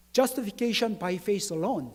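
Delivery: very slow, each word spaced. Acted. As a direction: spell it out slowly. Slow English term.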